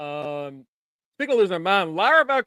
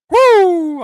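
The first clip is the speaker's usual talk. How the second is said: high, loud celebratory whoo; excited whoop; 10 semitones higher, 11 dB louder than usual. Retold or imitated. Retelling Heyman's relief after Braun leaves, whooping. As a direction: whoop like you just survived. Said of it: "and Heyman was like".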